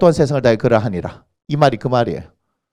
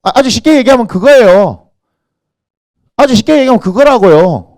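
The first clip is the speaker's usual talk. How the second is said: loud, raised-pitch insistence; emphatic preaching; 7 semitones higher, 8 dB louder than usual. Real, not acted. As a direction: hammer the point home to the congregation.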